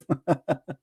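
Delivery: short soft scoffing laugh; brief chuckle at the opponent's logic; quiet mocking chuckle; derisive laugh. Real, not acted. Host laughs at caller's argument.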